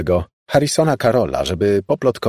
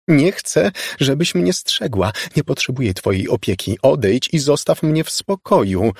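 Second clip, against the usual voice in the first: panicked shouting; 7 semitones higher than usual. Acted. Laura shouts at ghost.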